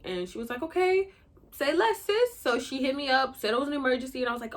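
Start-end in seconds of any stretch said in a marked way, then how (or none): 0.6-2.4 high-pitched, sing-song agreement; conspiring best friend. Retold or imitated. Imitating her best friend agreeing to help, conspiratorial. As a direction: go up high, eagerly in on it.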